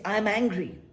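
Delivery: mock angry. Teacher imitating someone annoyed, mildly mock angry. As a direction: declare it like you're sure you're angry. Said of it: "you say".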